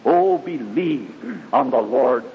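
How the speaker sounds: impassioned preaching, rising and falling; fervent gospel preacher building and easing. Acted. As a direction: preach it with fervor to the congregation. Preacher's testimony sermon.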